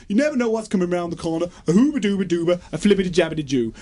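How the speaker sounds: a hint of film simpleton, turning to nonsense; Forrest Gump. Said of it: "doing a Forrest Gump impression".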